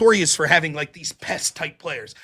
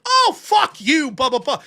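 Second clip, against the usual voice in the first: loud, high, drawn-out outburst; exaggerated cursing, not really mad; mock anger; 5 semitones higher, 4 dB louder, slower than usual. Debater showing how he sounds mad, mock anger. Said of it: "I might sound like it".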